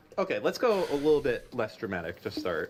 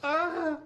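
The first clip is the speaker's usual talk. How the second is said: mock startled gasp. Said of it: "and it's like".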